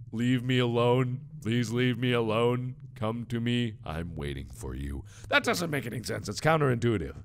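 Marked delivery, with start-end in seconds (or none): 0.1-5.0 slow, measured, lower at the end; creepy note reading. Acted. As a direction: read it slowly and ominously, sinking away.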